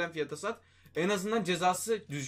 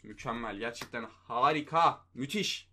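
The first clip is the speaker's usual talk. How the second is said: deadpan sarcasm; 6 semitones lower, slower than usual. Real, not acted. Sarcastic praise after bad pack.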